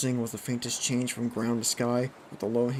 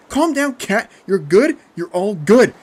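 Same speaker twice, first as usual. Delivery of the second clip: high, forceful shouted reassurance; shouting; 10 semitones higher, 14 dB louder, slower than usual. A narrator's reading. Jeff to panicking Kat, shouting. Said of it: "Jeff shouted".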